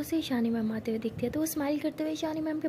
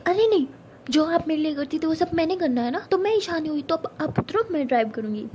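insistent; 3 semitones higher, 4 dB louder than usual. Acted. Pari insists on driving.

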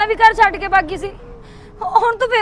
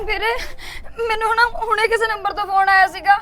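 speaking through tears; frightened mother, near sobbing; crying; 5 dB quieter than usual. Acted. Sister telling her brother about the call, crying.

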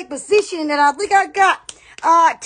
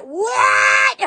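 retold surprise; 5 semitones higher than usual. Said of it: "then I was like".

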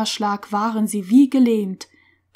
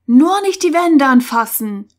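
loud, higher warning shout; urgent, raised-voice caution; calling out; 4 semitones higher, 6 dB louder than usual. A narrator's reading. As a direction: call out a sharp warning. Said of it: "rief Lutz".

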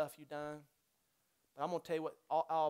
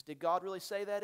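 a light hint of the tempter questioning; barely voiced serpent asking Eve; the enemy's voice; 4 semitones higher, 6 dB louder than usual. Pastor quoting the enemy to Eve, lightly voiced. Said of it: "He says".

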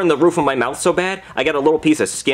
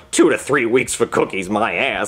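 grumbling; 4 semitones lower than usual. Retold or imitated. Grumbling alone on couch.

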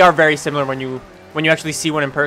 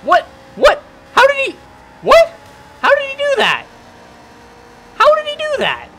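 high, loud stunned disbelief; can't believe he got past, shrieking; pitched-up outraged what; shocked disbelief; 6 dB louder than usual. Real, not acted. Rival overtakes in race.

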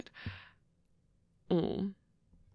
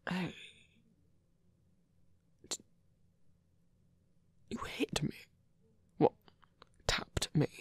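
playful whisper; 5 dB quieter than usual. Acted.

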